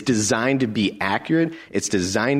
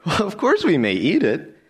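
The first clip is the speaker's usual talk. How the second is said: much higher, eager reply; woman's voice; 10 semitones higher than usual. Acted. Eve answering the serpent in a much higher voice. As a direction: answer brightly in a raised voice.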